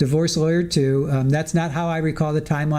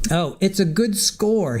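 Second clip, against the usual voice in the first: mock-sarcastic drawl, pitched up; 4 semitones higher, slower than usual. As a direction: draw it out slowly and higher, imitating sarcasm. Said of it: "Was that sarcastic?".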